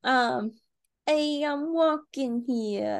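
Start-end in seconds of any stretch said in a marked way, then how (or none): 1.1-3.0 drawn-out, lightly done New York; slow New York accent. Pretend. Asked for New York, she tries a slow New York accent. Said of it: "can you do a New York accent?".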